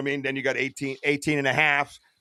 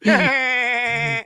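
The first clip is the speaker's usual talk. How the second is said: laughing; 9 semitones higher, 7 dB louder, much slower than usual. Real, not acted. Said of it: "How's that? Is that good?".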